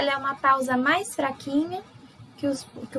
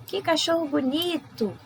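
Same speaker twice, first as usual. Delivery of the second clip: higher, excited admiring exclaim; exclamation; 5 semitones higher than usual. Shown as a demonstration. Teacher showing an exclamation to the class, excited. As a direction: gush over a cute dog. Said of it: "Mais forte, a voz até muda".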